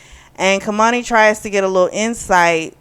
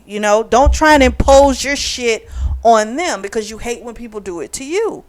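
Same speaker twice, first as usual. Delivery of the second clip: exasperated telling-off; 5 semitones higher than usual. Retold or imitated. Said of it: "she was getting on my nerves".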